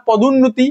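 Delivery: "পদোন্নতি" with the short u audible in the middle; sounded short u. Shown as a demonstration. Teacher proving the u is pronounced in "পদোন্নতি", sounded short u. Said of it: "হর্ষটা উচ্চারণ হচ্ছে না আমার".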